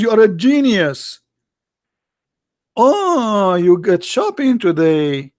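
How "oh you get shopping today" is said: mock dim husband. Mocking clueless husband line.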